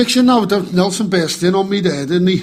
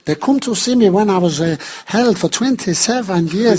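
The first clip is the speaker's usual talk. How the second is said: Nelson impression. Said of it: "Nelson, you're late".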